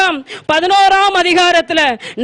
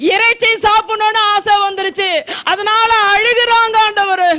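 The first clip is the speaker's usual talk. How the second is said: higher, pleading lament building to a tearful cry; Moses complaining to God; 4 semitones higher than usual. Retold or imitated. Moses crying out to the Lord about the weeping people, lamenting. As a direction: plead to God, near tears, voice rising. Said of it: "ஆண்டவரை நோக்கி முறையிட்டார்".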